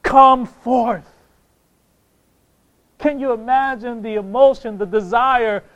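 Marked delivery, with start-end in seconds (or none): 0.0-1.1 raised, commanding call; preacher's ringing summons; crying out. Acted. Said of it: "cries out with a loud voice".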